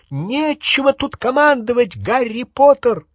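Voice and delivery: high, loud shout; shrill angry yelling. Acted. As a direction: yell at Harry in high fury. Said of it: "крикнула она".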